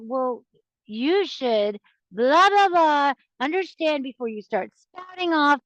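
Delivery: mock huffy know-it-all rebuke; defensive lecturing. Shown as a demonstration. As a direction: snap back like you're the one wronged. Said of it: "if you go to them just like".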